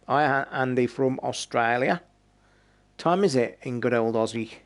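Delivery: a light attempt at an Aussie accent; mock Australian accent. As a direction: slip lightly into imitation Australian. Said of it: "Sorry for the accent".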